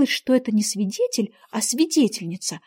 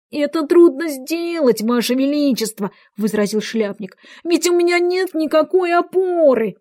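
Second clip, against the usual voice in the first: Hatter's voice; 4 semitones higher than usual. Acted. Hatter answers the King.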